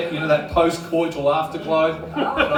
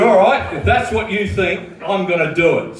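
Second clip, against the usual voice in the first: defiant; 3 semitones higher than usual. Retold or imitated. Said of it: "I said".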